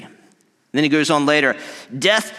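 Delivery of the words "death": higher, mocking call; Paul mocking death; taunting death. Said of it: "he's, like, taunting death".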